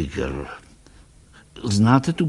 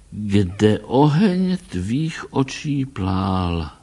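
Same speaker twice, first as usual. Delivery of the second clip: slow, measured poem reading; slow recited verse; poem recitation; slower than usual. A narrator's reading. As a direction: recite it line by line. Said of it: "recitoval Tracy".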